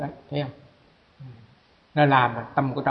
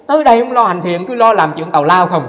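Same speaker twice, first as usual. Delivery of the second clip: critics' scolding quote; 3 semitones higher, 6 dB louder than usual. Retold or imitated. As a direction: scold like a critic of good deeds. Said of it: "nói vậy". (giọng chê bai nhại lại)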